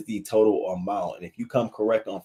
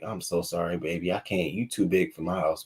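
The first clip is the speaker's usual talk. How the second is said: softer, lower, gentle apology; tender to the dog; 3 semitones lower, 5 dB quieter than usual. Real, not acted. Hugging the friendly dog, soft tender apology. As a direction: coo an apology to a dog you can't keep.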